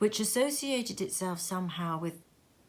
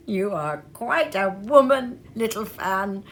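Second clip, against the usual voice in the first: exclaiming; 3 semitones higher, 7 dB louder than usual. A narrator's reading. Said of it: "exclaimed the boy".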